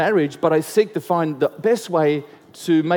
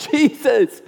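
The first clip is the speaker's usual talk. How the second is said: higher, louder yell than the first call; 7 semitones higher, 4 dB louder than usual. Retold or imitated. Bartimaeus yelling to Jesus despite the crowd, louder yell. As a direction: shout it over the crowd, refusing to be hushed. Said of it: "He yells out all the louder".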